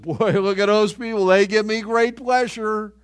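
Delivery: mock God. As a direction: play God beaming down at people, amused and loud. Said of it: "God never looked down and said".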